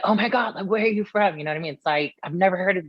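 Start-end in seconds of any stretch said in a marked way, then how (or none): 0.0-1.4 higher-pitched mock fascination; fascinated. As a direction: imitate a fascinated stranger, pitched up. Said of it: "they're just so fascinated by it".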